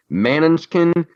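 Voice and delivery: "Manuchin" said MAN-un-chkin; variant name pronunciation. Shown as a demonstration. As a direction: stress the first syllable of "Manuchin", pitched high. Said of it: "pronounce his name a different way".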